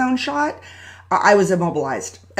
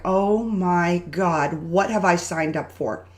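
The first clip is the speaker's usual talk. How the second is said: slow dread; 2 semitones lower, slower than usual. Retold or imitated. Retelling her dread at the jungle zip lines, slow and appalled. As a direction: let the dread sink in word by word.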